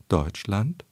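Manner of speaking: Deutschland rising late, into the unstressed syllable; Angela Merkel. Retold or imitated. Voice expert demonstrating chancellor's vague stress, late-rising Deutschland. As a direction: let Deutschland climb at the end, blurring the stress. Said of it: "ganz gerne etwa in der Art".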